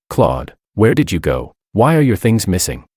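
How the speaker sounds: plain reading voice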